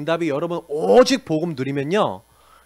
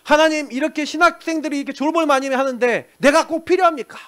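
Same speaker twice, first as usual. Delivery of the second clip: retold prayer; 8 semitones higher, 3 dB louder than usual. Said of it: "유 목사님이 기도했대잖아요".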